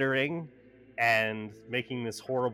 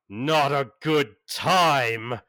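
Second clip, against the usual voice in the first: slow incredulous angel; 4 dB louder, slower than usual. Acted. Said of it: "and he's like".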